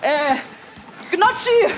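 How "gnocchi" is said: misread exclamation. Shown as a demonstration. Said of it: "Nee, Quatsch".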